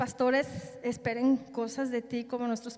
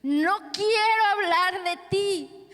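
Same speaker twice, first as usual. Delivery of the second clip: crying protest; 7 semitones higher, 6 dB louder than usual. Retold or imitated. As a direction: plead like a prophet who refuses, in tears. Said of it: "como Jeremías llorando". (protesta llorosa, más aguda y fuerte)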